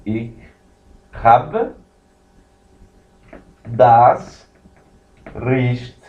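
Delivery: "Ich habe das Recht" with long pauses between words; slow teaching read of "Ich habe das Recht"; slow model phrase. Shown as a demonstration. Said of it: "E aqui você tem".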